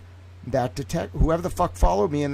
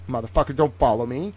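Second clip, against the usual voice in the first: retold outrage; 4 dB louder than usual. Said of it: "I was pissed".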